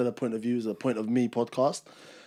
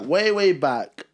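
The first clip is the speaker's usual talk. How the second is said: slow, drawn-out and louder; drawn-out echo; 5 semitones higher, 7 dB louder, much slower than usual. Pretend. Host echoing the intro line, slow and drawn out. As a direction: stretch every way like a show intro.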